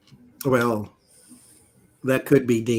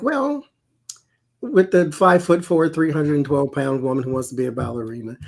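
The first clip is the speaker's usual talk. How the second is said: higher-pitched, hesitant, tactful hedging; kid-gloves sister; 5 semitones higher than usual. Retold or imitated. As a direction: imitate a sister treading very carefully. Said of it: "very kid gloves".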